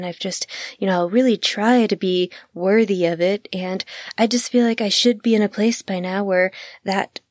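mildly put-on meek, tentative request; timid hedging ask. Mock-timid employee asking boss for a promotion, hedging. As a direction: hedge every word like asking the boss nervously. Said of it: "That's what that language sounds like when you're not being affirmative".

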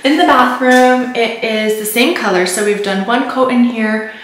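echoing off bare bathroom walls; talking in an empty tiled room; echoey room. Real, not acted. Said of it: "I'm sorry if it's really echoey in here".

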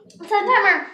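giggling through a mouthful of candy; laughing with mouth full. Real, not acted. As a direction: laugh while talking past the candy.

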